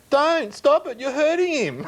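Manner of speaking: high, feeble little plea, imitated; feeble kid voice. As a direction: mimic a weak kid begging them to stop. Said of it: "one feeble go-, voice go".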